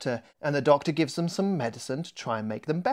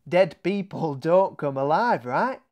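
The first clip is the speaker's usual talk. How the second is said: Mary's story; 4 dB louder than usual. Acted. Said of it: "Mary began".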